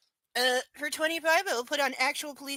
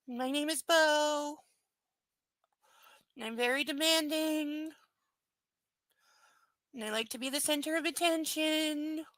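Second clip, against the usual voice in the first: cartoon dog; 3 semitones higher than usual. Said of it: "Say hi to everybody".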